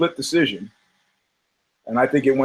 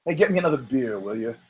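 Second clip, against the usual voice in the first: bored London crowd; 3 semitones lower, 7 dB quieter than usual. Retold or imitated. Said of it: "the London crowd was like".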